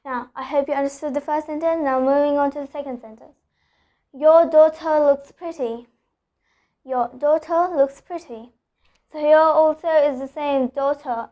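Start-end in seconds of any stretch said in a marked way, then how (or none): 4.1-8.5 "daughter" with no final R; British non-rhotic R. Shown as a demonstration. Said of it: "I'm not pronouncing the R". 10.7-11.3 "daughter" ending in a schwa, no R; dropped final R. Shown as a demonstration. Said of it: "I'm not pronouncing the R".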